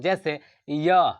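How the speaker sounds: य said slowly and clearly; teacher sounding out य; slow demo. Shown as a demonstration. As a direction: stretch out य for the class. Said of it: "आप य बोलिए".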